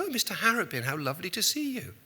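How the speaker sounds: high, gushing Margaret Thatcher greeting; Thatcher impression. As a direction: play Thatcher welcoming a reporter sweetly. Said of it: "Missus Thatcher was there saying".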